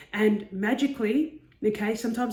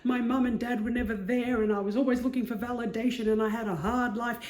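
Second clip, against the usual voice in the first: moping; 3 semitones higher than usual. Retold or imitated. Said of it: "stew on them and mope and be like".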